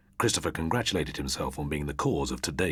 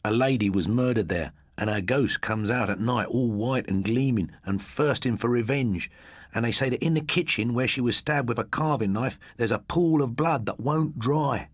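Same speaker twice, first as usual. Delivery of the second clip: higher voice, building the horror; spooky storyteller boy; 7 semitones higher, 3 dB louder than usual. A narrator's reading. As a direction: tell it to give them shivers. Christopher tells ghost story.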